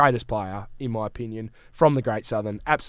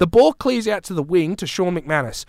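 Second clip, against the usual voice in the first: building call of the final seconds, higher and louder; excited retelling; 5 semitones higher, 3 dB louder than usual. Retold or imitated. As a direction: replay the last ten seconds like a caller. Recreating tense final seconds.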